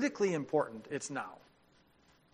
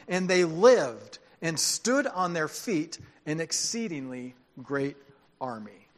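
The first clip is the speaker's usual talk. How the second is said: scripture reading; 4 dB louder than usual. A narrator's reading. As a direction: proclaim it, then let the last word drop. Reads scripture, dropping at the end.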